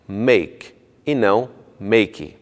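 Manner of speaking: "make" clean, then "make" said "maki"; slow contrast of "make" and "maki"; right then wrong. Shown as a demonstration.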